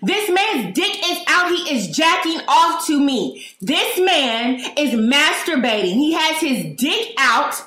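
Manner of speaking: slow, high screamed alarm, over and over; high-pitched yelling. Retold or imitated. Shopper alerting the whole store about a man, high-pitched yelling. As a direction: yell it like a fire alarm, stretched and high. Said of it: "that's how it was repeated".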